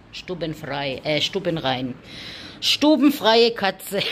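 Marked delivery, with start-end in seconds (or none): 2.6-4.0 slow, louder and a touch higher; playful praise. Real, not acted. Owner praising her house-trained cat, slow and playful.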